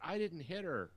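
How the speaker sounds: high mock protest; indignant denial. Driver protesting to the police, high indignant impression. Voicing woman denying crash to police.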